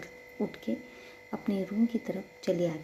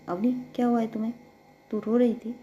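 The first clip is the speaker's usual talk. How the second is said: fast, louder anxious sister asking; worried elder sister; 3 semitones higher, 7 dB louder, much faster than usual. Acted. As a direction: rush the question like a worried sister.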